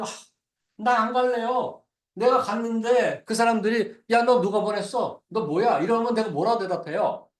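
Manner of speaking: a mock complaint, pushing back against the order; defiant talking back. Moses refusing to go, talking back to God with a whine. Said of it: "모세가 이렇게 대드는 거예요".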